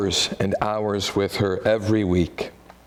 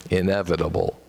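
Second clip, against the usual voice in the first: Midwestern accent; 5 semitones lower, faster than usual. Shown as a demonstration. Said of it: "than the Midwestern English".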